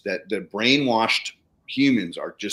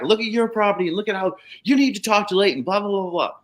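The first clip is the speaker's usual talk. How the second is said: retold lecturing; 9 semitones higher, faster than usual.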